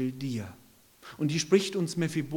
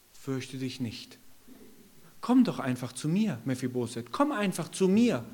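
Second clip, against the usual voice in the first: gentle invitation. Acted. David gently invites Mephiboset.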